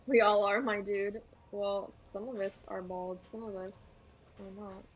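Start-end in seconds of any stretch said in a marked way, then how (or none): 1.5-4.8 teasing murmur. Real, not acted. Teasing aside to friend.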